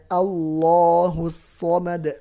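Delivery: Allahus Samad with a heavy, full lam, slowly; thick lam. Shown as a demonstration. (lam Allahus dibaca tebal)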